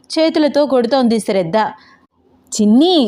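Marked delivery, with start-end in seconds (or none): 2.5-3.0 name called with a rising end; protesting call. Acted. Friend being playfully hit calls her name, protesting. First call as she hits him.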